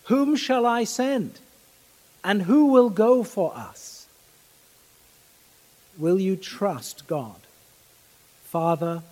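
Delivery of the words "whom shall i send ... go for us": higher, slower, a hint of divine summons; voice of the Lord. Preacher voicing God asking who will go, lightly higher and slower. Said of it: "the voice of the Lord saying".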